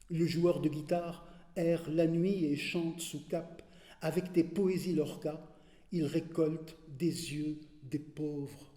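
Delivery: solemn poetry reading with weighted pauses; poem recitation. Acted. Reader reciting Darwish's homage to Lorca, measured poetry recitation. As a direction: declaim in measured phrases, easing down at each close.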